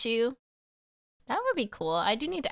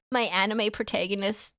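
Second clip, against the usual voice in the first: anime protagonist voice; slower than usual. Shown as a demonstration. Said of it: "I could do my Ash Ketchum voice".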